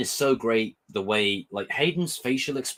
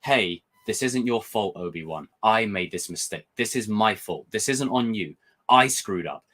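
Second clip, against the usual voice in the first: Anakin comforting. Retold or imitated. Fan voicing Anakin taking the fault from Obi-Wan, mildly comforting. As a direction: take the blame to ease a friend's guilt. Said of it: "saying it to Obi-Wan as a comfort".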